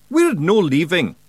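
high, slow Scottish pixie declaring; stubborn wee Feegle brogue. A narrator's reading. Feegle tells the ferryman they stay, in high Scottish brogue. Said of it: "he announced".

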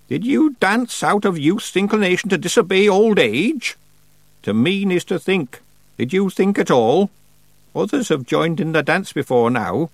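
put-on stern old witch. A narrator's reading. Old witch questioning Tiffany about the dance, stern and solemn. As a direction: deliver it like a severe old witch. Miss Treason's long stern speech.

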